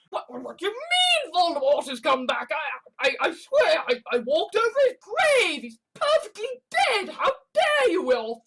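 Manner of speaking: rising high, hammed-up disbelief; mock panic. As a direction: squeak out denial like a panicked fool. Spoof of shocked Voldemort denier.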